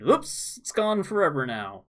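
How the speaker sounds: high, breezy fake apology; mock innocent oops. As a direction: toss it off like a careless company. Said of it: "and then went".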